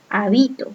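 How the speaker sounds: Habito with the stress on BI, softly; stress on middle syllable. Shown as a demonstration. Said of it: "bi suena más fuerte".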